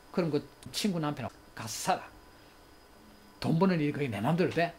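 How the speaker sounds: half-shouted retort to a wife; angry yelling. Acted. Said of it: "이렇게 고함을 지르면서". (화난 남편이 고함치는 흉내)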